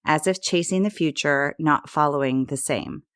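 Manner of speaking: measured, rhythmic poetry reading; poem recitation. Acted. Reads a poem over music.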